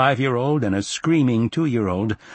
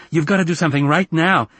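put-on high, loud, insistent boy; agitated boy's plea; urgent child; 8 semitones higher, 5 dB louder than usual. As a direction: demand help urgently in a raised voice. Frantic boy urging his father.

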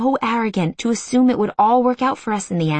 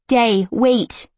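calling out; 4 semitones higher, 4 dB louder than usual. Acted. Rushing after him to the door.

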